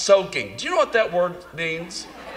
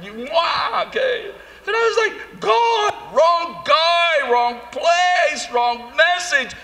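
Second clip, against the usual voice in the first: high shrill-free squeaky mock gush; high mock squeal; 12 semitones higher, slower than usual. Preacher mocking himself among the women, high mock squeal. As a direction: squeal it high like an overexcited fan.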